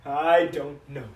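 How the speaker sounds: slow, halting confession; understated grief with long pauses; faltering regret. Acted. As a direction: struggle to get each phrase out. Father falters in regret over son.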